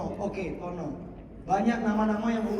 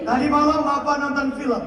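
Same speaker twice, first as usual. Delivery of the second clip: maths teacher demo. Shown as a demonstration. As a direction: open the maths lesson with a story. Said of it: "Ini contoh saya". (guru matematika membuka dengan cerita)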